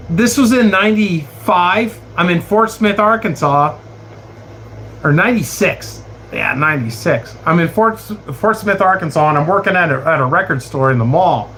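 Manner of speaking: usual speaking voice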